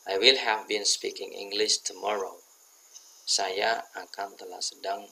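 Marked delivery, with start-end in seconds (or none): 0.1-2.4 slow, louder, word by word; slow model sentence. Shown as a demonstration. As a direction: set out each word for the class. (diucapkan pelan per kata sebagai contoh)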